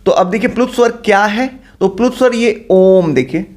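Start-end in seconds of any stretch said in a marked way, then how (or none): 2.7-3.1 ओम said with the vowel held long, as a pluta vowel; ओम को खींचकर लंबा बोलिए; drawn-out om. Shown as a demonstration. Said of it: "ऐसे जहाँ बना रहेगा". (ओम को लंबा खींचकर, प्लुत स्वर की तरह)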